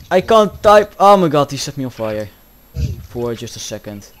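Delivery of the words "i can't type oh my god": loud, raised outburst under attack; frantic shout. Real, not acted. Player set on fire while typing, frantic shout. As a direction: shout it in frustration.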